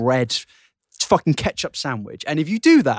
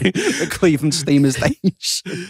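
train announcer; slower than usual. Pretend. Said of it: "Anglia trains announcing new station".

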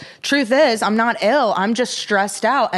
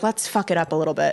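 teasing mock voice; 6 semitones lower, 6 dB quieter than usual. Teasing voice for friend.

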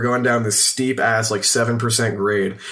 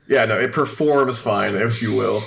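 holding back a laugh; trying not to laugh. Real, not acted. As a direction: speak through suppressed giggles. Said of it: "I can't look at you".

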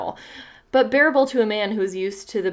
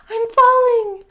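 higher, sharp warning call; 14 semitones higher, 6 dB louder, slower than usual. Acted. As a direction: snap the warning out high. The voice calls down chimney.

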